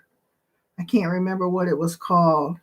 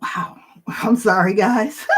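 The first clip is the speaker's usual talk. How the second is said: real tears creeping in; choked up. Real, not acted. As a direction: apologize through welling tears. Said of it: "I feel like I'm about to cry".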